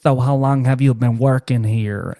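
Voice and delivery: slow, flamboyant coworker impression; flamboyant man. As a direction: draw it out with camp flourish. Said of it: "he's, like, super flamboyant".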